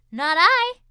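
loud lazy refusal; a lightly voiced bored cat; snooty bored cat. A narrator's reading. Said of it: "said the cat".

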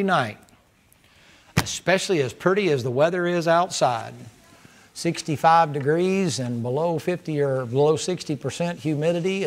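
earnest pulpit prayer; closing prayer. Acted. Pastor prays over the church at service end, earnest. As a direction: pray over the congregation.

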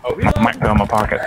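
muffled by a pocket; muffled mic. Real, not acted. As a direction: sound through fabric. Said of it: "talking through a pillow made of shit".

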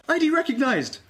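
high, loud machine alert; alarm announcement. Acted. The station computer sounding the alarm loudly. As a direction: blare it like a siren.

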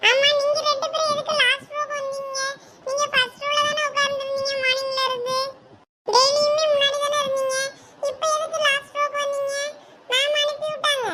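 a younger classmate asking why they moved back; college girl voice. Acted. Friend asking the girls why they sit at the back, girlish.

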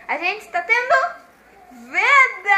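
loud, high shout. Real, not acted. Shouted announcement.

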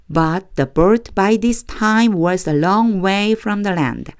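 slow, deliberate read-aloud for learners to follow; measured Bible reading for a class; slow scripture reading. Acted. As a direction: read each phrase slowly so the class can echo.

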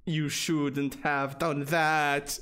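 slow ominous villain read; lightly voiced slow menace; mock menace. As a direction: drag it out like a villain. Reading game villain line.

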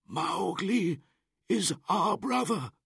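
high, loud, firm defence; old wolf leader. Acted. Akela defending Mowgli before the pack, firm. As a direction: stand up for the boy.

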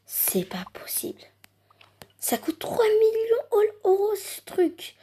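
whispered disbelief, rising high; awed whisper. Pretend. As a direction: whisper it, too amazed to believe. Stunned by the last gift.

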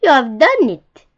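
loud, proud cheer; old beetle praises the young one, loud cheer; excited shout. A narrator's reading. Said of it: "shouted the wise old click beetle".

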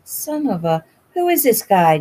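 rising angry shout; angry outburst. A narrator's reading. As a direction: burst out, furious.

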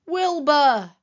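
loud, high exclamation of the name; gasped astonishment. A narrator's reading. Elmer spots his friend up a tree, astonished. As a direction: cry the name out in shock. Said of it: "gasped Elmer".

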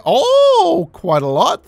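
high, loud delighted oh; surprised. Real, not acted. Player surprised by a generous donation, delighted oh. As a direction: gasp with delight.

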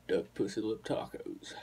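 slow, deliberate comedian's punchline; Ron White. Retold or imitated. Quoting the punchline of a comedy routine, slow impression. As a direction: land each word slowly like a stand-up. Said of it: "He goes".

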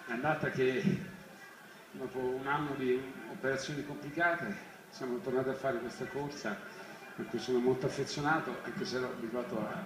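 tired and out of breath after the run; short of breath, worn out. Real, not acted. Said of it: "era un pochino più rilassato e fresco di adesso, un po' meno provato".

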